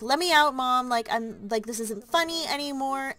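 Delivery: mock call through a locked door. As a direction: raise voice and pitch, half-acted protest. Locked-in girl banging on door.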